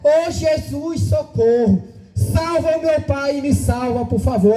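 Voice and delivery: slow, drawn-out little girl's cry, lightly voiced; a touch of a three-year-old begging Jesus; child's plea. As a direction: linger on the opening call like a hurt toddler. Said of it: "Aquela criança de três anos de idade dizia".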